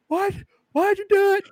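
very high, squeaky officer demanding why; cartoon cop shrieking a question; mock cop voice. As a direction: ham up the cops' disbelief. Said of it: "They're like".

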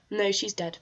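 imitating a brisk routine answer; blunt, matter-of-fact. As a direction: say it like a normal day in the office. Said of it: "he's so just blunt and matter of fact".

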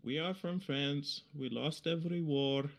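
mock French accent. Joking as a French lover in a song, mock French accent. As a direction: put on a soft, silly French accent. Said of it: "uh, French. You can be like".

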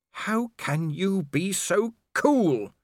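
snarled. A narrator's reading. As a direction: spit the question back at him. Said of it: "she snarled".

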